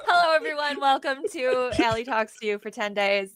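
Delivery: laughing, bubbly host intro; mock show host. Guest pretending to host her own show, giggly and upbeat. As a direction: play a giddy YouTuber greeting fans. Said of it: "it's my show".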